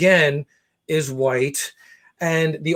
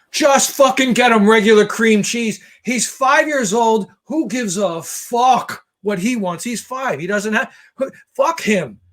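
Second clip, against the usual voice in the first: exasperated rant; 5 semitones higher than usual. Retold or imitated. Ranting at the mom, angry.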